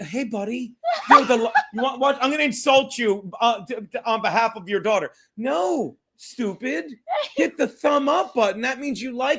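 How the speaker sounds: condescending, talking-down tone. A man talks to his buddy as if to an idiot: talking down to him. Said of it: "I'll treat him like an idiot".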